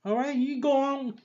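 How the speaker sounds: a lightly voiced swaggering Shane; a bad, half-hearted tough-guy imitation; Shane impression. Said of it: "It was the worst Shane impression".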